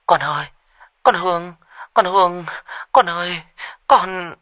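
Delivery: mother on the phone, full of worry; anxious. Acted. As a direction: call out as a worried mother. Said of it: "Tiếng của mẹ tôi đầy lo âu".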